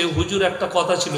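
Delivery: soft, hushed aside imitating a worshipper; confidential murmur. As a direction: murmur it privately into the imam's ear. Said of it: "কানে কানে বলছে". (কানে কানে নিচু গলায় বলা)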